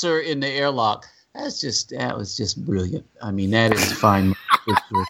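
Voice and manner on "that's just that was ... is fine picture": sarcastic. Real, not acted. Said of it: "Is that sarcasm?".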